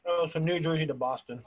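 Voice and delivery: talking with mouth full; smacking while eating; chewing while talking. Real, not acted. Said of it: "Can you hear me eating?".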